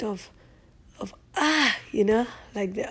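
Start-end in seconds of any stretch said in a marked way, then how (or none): 1.4-1.8 higher-pitched blissful "ah"; sigh of relief. Shown as a demonstration. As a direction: let out an "ah" of relief. Acts out moment of relief in heat.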